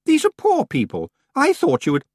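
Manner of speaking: indignant. A narrator's reading. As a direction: Anagramma lecturing Tiffany about poor people, indignant. Anagramma scolding Tiffany.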